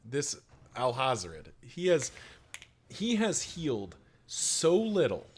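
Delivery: drawn-out frustrated whine; exasperated complaint. Real, not acted. Complaining about bad luck.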